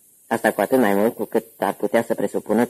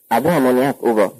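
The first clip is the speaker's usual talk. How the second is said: loud, higher call for ammonia; shouting order; 3 semitones higher, 4 dB louder than usual. Acted. Uncle Gino shouts to Ugo for ammonia, loud. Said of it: "strigă unchiul Gino".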